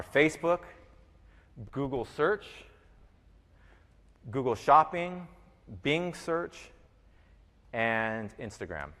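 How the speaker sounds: slow, spaced-out dictation. Real, not acted. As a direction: read each name slowly with long pauses. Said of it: "so you can write 'em down".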